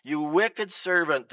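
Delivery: slow, loud rebuke from the king; king roaring. Acted. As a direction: roar it down at the servant. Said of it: "the king roared".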